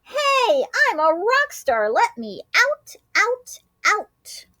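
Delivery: high, loud, fast rock star yell; rock star shout. A narrator's reading. Groundhog rock star shouting to be let out. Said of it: "announced with a shout".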